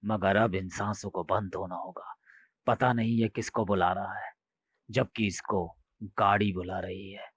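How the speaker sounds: quietly seal his fate; menacing ghost. Acted. Ghost dooms the coolie. (कुली को मौत सुनाता भूत, धीमी दबी आवाज़)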